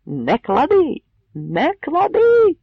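ringing high shout, second cry slow; metallic shout. A narrator's reading. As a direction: cut through the crowd sharply. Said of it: "металевим голосом крикнув Богун". (металевий окрик Богуна)

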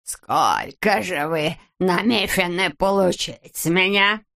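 slow, with "намерены" as "намефены". A narrator's reading. Miser asks the price, "намерены" with F for R. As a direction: drag it out, saying "намерены" with F for R. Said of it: "Вместо неё он произносил букву".

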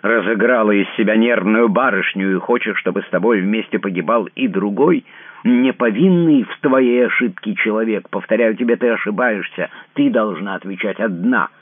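he spells out his cold refusal to share her fate; cold enunciated fury. A narrator's reading. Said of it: "отчеканивая каждое слово".

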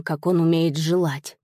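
ordinary delivery, nothing marked

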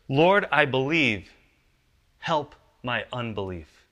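slow, loud plea, a touch of tearful pleading; crying out with tears. Retold or imitated. Father pleading with Jesus for his child, slow loud tearful cry. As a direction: cry out to the Lord, slow and heavy. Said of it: "cried out and said with tears".

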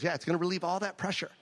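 doctor voice. Retold or imitated. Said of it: "He goes".

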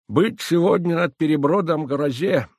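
put-on high, loud, slow old crone's prophecy; convincing old woman. A narrator's reading. Old woman warns of a coming storm, high and loud. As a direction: foretell the storm like a village wise woman. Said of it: "сказала она убедительным тоном".

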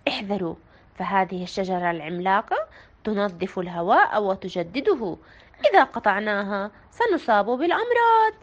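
low, calm, measured caution; calm warning. A narrator's reading. Town doctor calmly cautioning villagers, low calm voice. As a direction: warn them gently and steadily. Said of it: "بهدوء رد طبيب البلدة".

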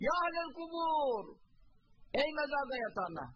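retold shout. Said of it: "ne diye bağırdı".

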